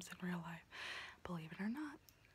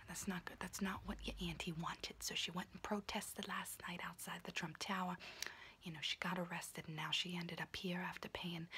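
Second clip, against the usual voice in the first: whispering auntie roleplay. Acted. Auntie whispering to her niece while doing her nails, in a confiding unvoiced whisper. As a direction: whisper close and chatty like a kooky aunt doing your nails.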